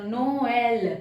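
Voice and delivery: नोएल as no-EL; both vowels sounded. Shown as a demonstration. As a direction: keep O and E separate in नोएल. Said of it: "अभी यही word बताया था".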